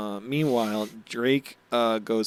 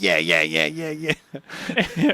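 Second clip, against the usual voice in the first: high, excited run of yeahs; excited cheering; 5 semitones higher, much slower than usual. Acted. Luffy cheering at the screen for his crew, excitedly. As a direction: imitate an excited fan cheering. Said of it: "so excited".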